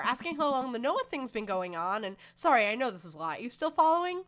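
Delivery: animated, lightly voiced teen venting to dad; ranting teenage daughter. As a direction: vent like an aggrieved teenager. Voices Amanda telling her story.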